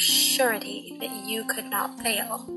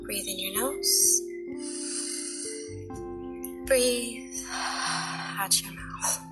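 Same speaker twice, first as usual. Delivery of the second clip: guided meditation. Acted. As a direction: guide them gently into relaxation.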